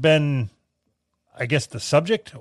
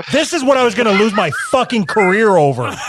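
laughing while talking; words through a big laugh; 6 semitones higher, 6 dB louder than usual. Real, not acted. Laughing at his own joke.

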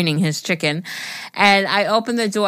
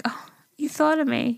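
whispered aw; 6 semitones higher, 5 dB quieter than usual. Retold or imitated. Mock touched reaction.

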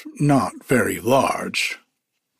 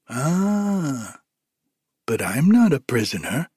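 buzzy housefly. Acted. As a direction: toss it off and fly away. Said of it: "remarked the fly".

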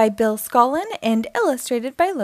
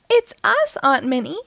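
cheerful twins shouting hello; child voices shouting; 6 semitones higher than usual. A narrator's reading. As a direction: pop out and shout it like a playful kid. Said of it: "shouts Millie and Melody".

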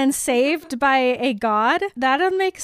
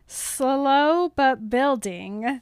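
drawn-out words; much slower than usual. Shown as a demonstration. Drawing out words to describe making out.

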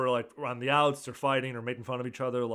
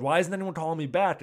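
mild mock panic, higher and louder; imitating Drama's freak-out; 4 semitones higher, 6 dB louder than usual. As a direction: retell a frantic complaint. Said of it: "Drama's freaking out".

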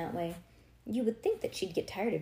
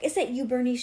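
put-on loud, raised old-neighbour squawk; 5 semitones higher, 7 dB louder than usual. A narrator's reading. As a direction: squawk the question accusingly. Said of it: "she squawked".

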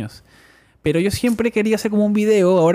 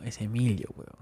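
nervous disbelief; 4 semitones lower, 10 dB quieter than usual. Retold or imitated. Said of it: "me puse nervioso".

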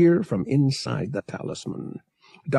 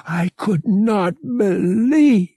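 higher, strange-timbred female alien voice; tender alien mate; 10 semitones higher than usual. Acted. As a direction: speak to him with worried love.

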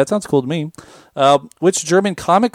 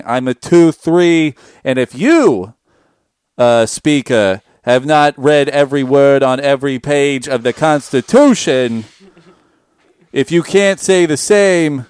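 pompous senator. Pretend. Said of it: "act like a senator and read a magic card".

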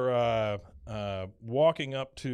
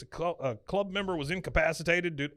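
higher-pitched official reporting an incident; officious guard; 5 semitones higher than usual. Retold or imitated. Security guard reporting to Hank at the door, mock-officious. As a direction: report it like a self-important guard.

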